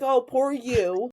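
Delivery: slow, drawn-out fake pity; retold sarcastic pity; mock sympathy. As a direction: stretch it out in teasing commiseration. Mock pity for travelling sister.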